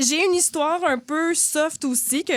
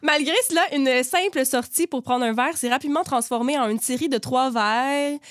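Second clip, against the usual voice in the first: measured read-aloud of a listener's anecdote; light narrator's delivery; story reading. A narrator's reading. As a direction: read the submitted story out neatly.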